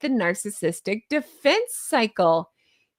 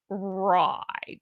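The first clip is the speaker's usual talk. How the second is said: drawn-out movie-villain catchphrase, lightly voiced; a hint of a campy villain, vowel stretched; Doctor Evil; 2 semitones lower, 4 dB quieter than usual. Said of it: "How about Doctor Evil?".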